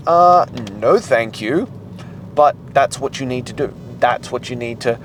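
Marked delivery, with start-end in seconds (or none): 0.1-1.7 body refusing, mock. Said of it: "your body's gonna be like".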